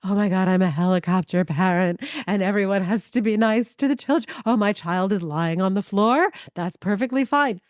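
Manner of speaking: hint of a gushing, indulgent parent; mocking helicopter parent. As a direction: parody an overprotective mom, mildly. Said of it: "there was none of this, like".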